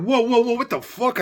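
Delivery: 1 retold shocked outburst.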